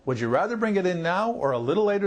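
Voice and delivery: confident, ready phone reply; assertive. Shown as a demonstration. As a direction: invite the caller in without hesitating. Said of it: "done it in an assertive way".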